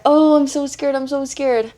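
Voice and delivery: scared. Real, not acted. Vlogger about to rip a wax strip, scared. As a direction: panicky repeat before the pain. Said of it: "I'm scared".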